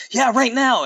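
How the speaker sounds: high, emphatic cartoon yell; mock yell. A narrator's reading. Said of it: "Amy yelled".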